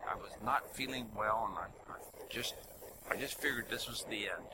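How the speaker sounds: whispering mother's weak words; hushed retelling of her frail mother; whispered quote. Retold or imitated. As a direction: whisper as an old sick mother. Mother retold near death.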